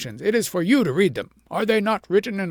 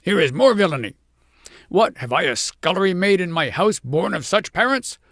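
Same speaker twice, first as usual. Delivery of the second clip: much louder, higher, commanding; furious shout; 4 semitones higher, 7 dB louder than usual. A narrator's reading. King orders the family to the rack, loud and furious. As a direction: order it in fury. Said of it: "shouted the king".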